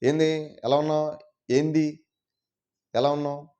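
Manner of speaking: casual Vijayawada-accented greeting; lightly imitated Vijayawada slang; Vijayawada Telugu. Shown as a demonstration. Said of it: "Vijayawada కొంచెం, ఆ, భాష మారుతుంది".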